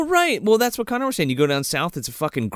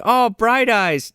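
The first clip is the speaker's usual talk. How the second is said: higher, louder, drawn-out impression; acted movie quote; 8 semitones higher, 5 dB louder, much slower than usual. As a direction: slowly croon it out, pitched up. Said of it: "He's like".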